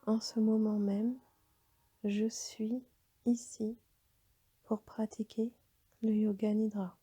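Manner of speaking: calm yoga nidra guidance with long pauses; guided meditation. Acted. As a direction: guide them toward rest, phrase by phrase, leaving long silences. Leads a yoga nidra session. (méditation guidée, posée, avec de longues pauses)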